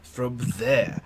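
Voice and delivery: careful words, questioning lift at the end; slow, simple speech. Acted. Professor gestures to the group for the girl, speaking carefully in pieces. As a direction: spell it out gently, word by word.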